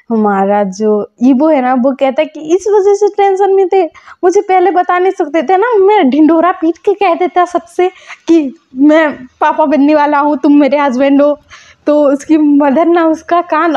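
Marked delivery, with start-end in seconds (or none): 2.4-11.4 excited scolding. Retold or imitated. Excited scolding over secret.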